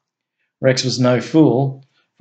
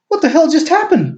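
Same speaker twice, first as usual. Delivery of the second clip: much higher, stunned outburst; blurted amazement. A narrator's reading. Guard as the car vanishes, blurting in amazement. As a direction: blurt it out in disbelief. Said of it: "blurted the guard in amazement".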